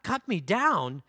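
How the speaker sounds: slow, shocked question; stunned disbelief. Acted. Bamboo repeating the master's words, slow stunned disbelief. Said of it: "A trembling of great horror shook bamboo".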